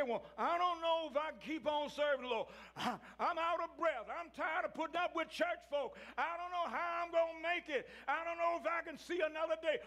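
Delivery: high, pleading voice of a worn-out churchgoer; weary believer complaining. Retold or imitated. Preacher voicing tired church folk, high pleading complaint. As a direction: lift it up and plead like someone ready to quit.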